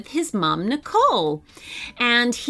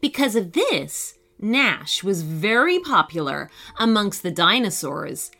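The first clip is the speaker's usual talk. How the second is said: epic fantasy narrator. Acted. Storytelling narration begins.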